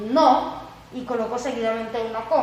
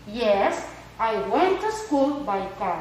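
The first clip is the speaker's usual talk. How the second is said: slow, careful English answer; slow model answer; much slower than usual. Shown as a demonstration. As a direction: read the long answer out slowly. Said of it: "Miren cómo me queda".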